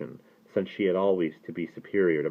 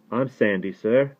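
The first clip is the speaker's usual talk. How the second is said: put-on higher young boy's voice; flushing boy; 4 semitones higher than usual. A narrator's reading. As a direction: answer the rabbi as a flushing boy. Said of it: "flushing furiously".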